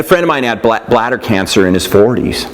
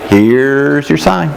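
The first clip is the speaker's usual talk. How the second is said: slow, deadpan comedian punchline; Ron White punchline; 2 semitones higher, much slower than usual. Retold or imitated. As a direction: drag it out slowly like a stand-up tag line. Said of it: "what's that, Ron White?".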